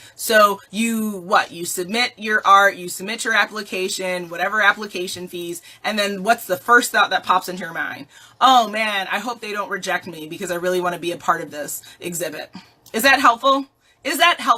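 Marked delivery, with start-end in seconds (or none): 12.9-14.6 stern, frustrated, pitched-up voice. A speaker questions a listener's first thought after applying, stern. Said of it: "I say that with like sternness in my voice".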